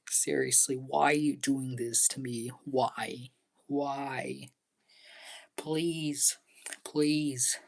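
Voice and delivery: mild hammed-up begging, partly whispered; mock pleading. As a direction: plead with the park in mock despair. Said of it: "I'm just showing you how it makes me really feel".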